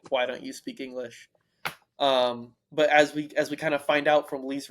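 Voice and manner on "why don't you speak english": a mild judgmental "Why don't you speak English?"; a touch of disapproval on "Why don't you speak English?"; understated scolding question. Retold or imitated. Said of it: "like, a judgmental".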